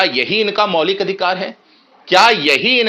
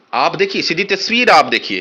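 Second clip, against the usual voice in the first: plain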